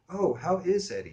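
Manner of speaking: high, loud female greeting; suddenly friendly. Acted. Woman asks after a mutual friend, suddenly friendly and high. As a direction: perk up as the woman recognizing a friend's name. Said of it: "She was getting friendly as hell".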